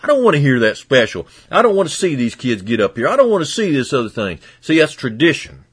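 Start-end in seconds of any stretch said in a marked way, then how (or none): 0.0-4.4 lightly voiced higher complainer wanting just songs; a hint of a whiny parishioner; mildly mocking a member who only wants preaching; mock complaining member. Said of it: "people come to me and tell me".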